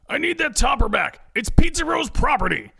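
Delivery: high, forceful yell. A narrator's reading. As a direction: yell it through a car window. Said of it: "Ed yells through the teenagers' window".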